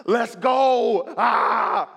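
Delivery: hyped-up shouty gym bro; mock gym bro cheer; loud gym bro. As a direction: bark it like a gym hype man. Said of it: "type gym person".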